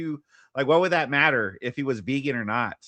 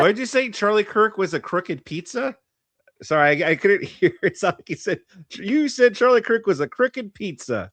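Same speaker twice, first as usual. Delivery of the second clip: mock disbelief; 4 semitones higher than usual. Real, not acted. Co-host mocks misheard word.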